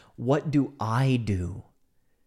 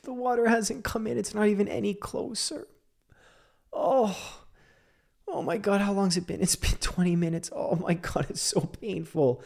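higher, panicked exclamations; rising panic; 8 semitones higher than usual. Retold or imitated. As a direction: sound desperate as nothing changes. Panicked retelling of waiting.

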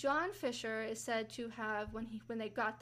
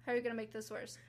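incredulous retort; 4 dB louder, faster than usual. Retold or imitated. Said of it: "that was my exact thought".

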